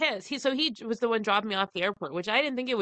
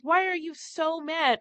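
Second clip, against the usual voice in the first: pitched high, baffled; baffled question; 9 semitones higher than usual. Retold or imitated. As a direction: ask it high, genuinely puzzled. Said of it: "And I'm like".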